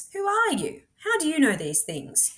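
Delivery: high, alarmed asking; a sudden wary question; uneasy listener asking; startled question. Acted. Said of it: "you ask".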